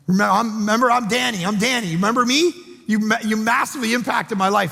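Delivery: put-on buddy gushing to a stranger he thinks is his old mentor, overjoyed; gushing excited greeting. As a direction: gush with delight at seeing an old mentor.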